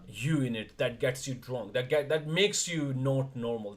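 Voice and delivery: usual speaking voice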